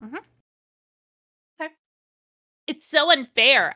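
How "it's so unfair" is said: slow, loud mock whine; whiny heroine. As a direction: whine it like a spoiled teen girl. Ebony's whine read aloud.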